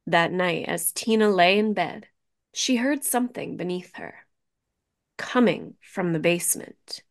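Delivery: ordinary delivery, nothing marked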